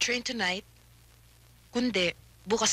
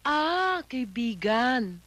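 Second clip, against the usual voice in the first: mocking drawl; much slower than usual. Wife mocks the word friend.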